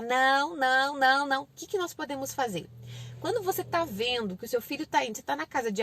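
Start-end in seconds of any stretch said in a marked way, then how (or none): 0.0-1.4 string of insistent, louder nos; repeated scolding no. Acted. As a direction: nag with no after no. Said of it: "Pra não ficar só".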